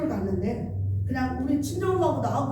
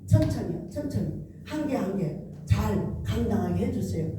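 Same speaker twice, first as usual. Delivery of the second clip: pleading prayer; 4 semitones lower than usual. Retold or imitated. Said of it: "너무 답답하면은".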